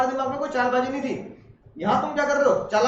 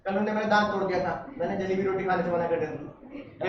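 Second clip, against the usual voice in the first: mock uncle complaint; 5 semitones lower, 7 dB quieter than usual. Joking voice of uncle.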